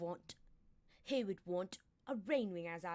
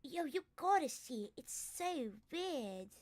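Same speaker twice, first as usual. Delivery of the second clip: excited; 4 semitones higher, 3 dB louder than usual. Acted. Excited character line.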